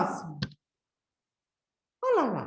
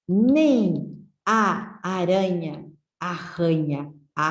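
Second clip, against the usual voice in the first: careful tongue-twister reading. Shown as a demonstration. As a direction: spell it out for the class, word by word. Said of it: "esse texto que nós acabamos de ler é um trava-línguas".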